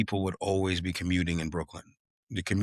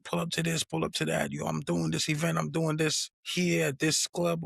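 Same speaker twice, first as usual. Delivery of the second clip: hyped-up self invite; 9 semitones higher than usual. Retold or imitated. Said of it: "so I would be like".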